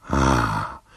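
low, soft "ah" of a huge man; esclamazione dell'omone. A narrator's reading. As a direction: breathe out a deep, soft exclamation. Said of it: "esclamò l'immenso uomo". («ah» basso e sommesso)

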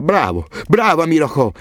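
grido di gioia, acuto e lento; joyful shout. A narrator's reading. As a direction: esulta per la vittoria dell'amico. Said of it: "Hassan urlava di gioia". (Hassan esulta abbracciando Amir: urlo di gioia acuto)

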